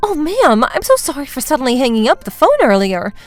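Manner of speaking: lightly put-on polite apology; feigned apology. Daughter-in-law apologizes knowing the family listens, feigned politeness. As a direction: sound innocently sorry, starting high.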